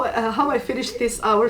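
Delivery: usual speaking voice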